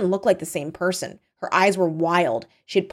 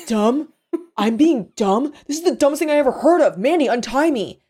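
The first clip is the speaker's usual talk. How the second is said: high, loud, fast disbelief; indignant outburst; 7 semitones higher, 4 dB louder than usual. Acted. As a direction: protest hotly at being called dumb. Captive argues with kidnapper.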